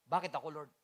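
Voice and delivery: low, soft "Bakit ako, Lord?"; quiet lament. Retold or imitated. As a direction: murmur it like a private complaint. Pastor retells his own question.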